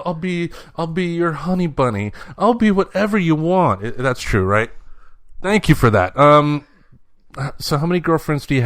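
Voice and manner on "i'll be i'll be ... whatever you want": imitating the boy, higher and hammed-up; mock the kid bragging about girls, pitched up; mock lovesick boy. Dad teasing his son by voicing him, higher. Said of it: "Like, all these girls won't leave me alone".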